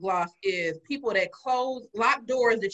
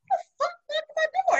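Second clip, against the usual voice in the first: retold angry yell. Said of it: "I'm like".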